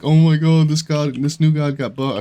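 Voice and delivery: sarcastic overexcited YouTuber yelp; mock clickbait hype. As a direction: parody a breathless clickbait thumbnail voice. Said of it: "like, stupid".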